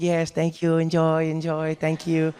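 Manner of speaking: understated gracious host; mild hospitable politeness; friendly, accommodating. Acted. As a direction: welcome guests kindly, drawing out the last thanks. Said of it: "he's really accommodating, he's friendly".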